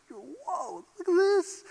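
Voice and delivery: amazed whoa. Retold or imitated. Seeing mountain range before you.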